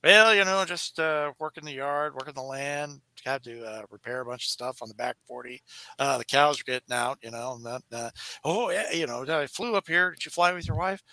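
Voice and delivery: lightly voiced folksy cowboy; cowboy character. Jonathan Winters as a cowboy rambling to the talk show host. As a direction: ramble like a rancher. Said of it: "He goes".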